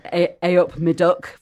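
lightly imitated Midlands greeting; a hint of Midlands dialect; Midlands accent. Shown as a demonstration. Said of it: "from people from the Midlands".

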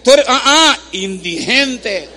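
"indigente" said slowly after a hesitating "ah, ah"; hesitate, then draw out "indigente" slowly; drawn-out teaching. Shown as a demonstration. Preacher having the church repeat the word, slow drawn-out "indigente". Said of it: "Diga conmigo".

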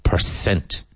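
PERCENT with a clear S before "ent"; careful S sound. Shown as a demonstration. Teacher repeating the correction for learners, clear S in "percent". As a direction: model "percent" with an S, not TH. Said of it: "And be careful, percent".

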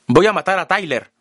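high, loud, resolute; shout. A narrator's reading. Narrator shouts his resolve to kill Tyler, high and loud. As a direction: yell out the decision.

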